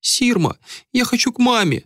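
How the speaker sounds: put-on high little boy's plea; a small child begging for mum; thin child's voice. A narrator's reading. Little boy pleading with Sirma, high thin voice. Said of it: "раздался тоненький голосок".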